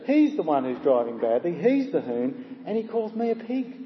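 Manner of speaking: put-on affronted grumble, pitch swooping up; a touch of wounded outrage; mildly indignant. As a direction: play the insulted driver, lightly huffy. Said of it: "Well, he thinks".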